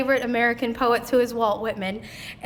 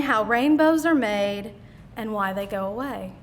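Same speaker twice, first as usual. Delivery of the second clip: quote recitation. Acted. Host reading a favorite poet to the audience, lilting recitation. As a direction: read it aloud like verse, letting each phrase land. Reads a poet's definition of poetry.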